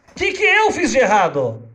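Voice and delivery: hammed-up distraught wife; imitating crying wife. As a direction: plead like a wife near tears. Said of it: "vem a esposa dele chorando e fala".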